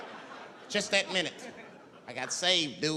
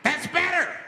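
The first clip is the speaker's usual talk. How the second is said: creepy villain; 12 semitones higher, 5 dB louder than usual. Retold or imitated. Menacing homeless man.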